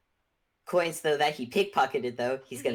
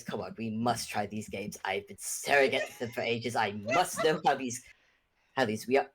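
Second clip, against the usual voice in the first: lower, lightly put-on character voice; eager party host character; 5 semitones lower than usual. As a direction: eagerly coax them along in character.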